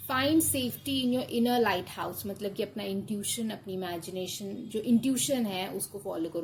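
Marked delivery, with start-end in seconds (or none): 0.1-2.3 very slow, louder, word-by-word reading of the card text. Acted. Tarot reader reading the card's message to the viewer, slow and deliberate. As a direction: read it out like an oracle pronouncing.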